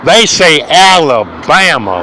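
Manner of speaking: Alabama drawn out slowly; stress on Alabama. Shown as a demonstration. Ranter corrects how the team gets named, stressing Alabama. Contrasting short name with full names.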